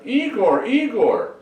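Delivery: high, loud yell for a servant; screamed call. Acted. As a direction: holler the name out, high and urgent. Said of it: "all of a sudden he screams out".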